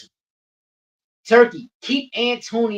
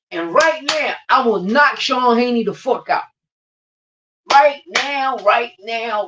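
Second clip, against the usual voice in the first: raised, punchy challenge; loud callout; 5 semitones higher, 5 dB louder, slower than usual. Real, not acted. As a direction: call him out loud and sharp. Fired-up callout of rival boxer.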